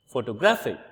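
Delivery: photo-GRAPH-ic, peak on graph; shifted stress in photographic. Shown as a demonstration. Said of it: "shifts from first syllable to the second syllable".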